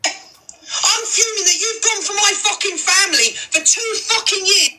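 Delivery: slow furious yelling; angry shout. Real, not acted. Furious outburst at opponent.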